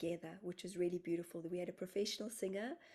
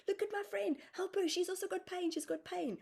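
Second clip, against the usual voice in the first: much higher, louder pleading; urgent plea; 12 semitones higher, 4 dB louder than usual. Retold or imitated. In pain, begging the group to help her friend, much higher and louder.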